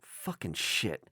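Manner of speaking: low, slow swear under the breath; muttering. Retold or imitated. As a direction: mutter it to yourself, dragged out. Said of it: "then I'll just mutter".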